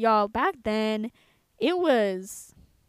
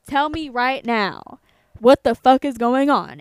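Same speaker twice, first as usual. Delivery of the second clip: retold angry demand, spaced out then louder; 7 dB louder than usual. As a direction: build to a loud, exasperated demand. Retold furious demand to boyfriend.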